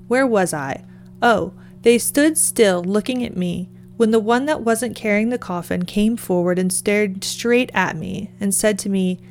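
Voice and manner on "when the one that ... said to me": usual speaking voice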